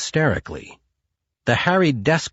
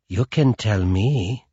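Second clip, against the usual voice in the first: purring. Acted. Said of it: "she purred".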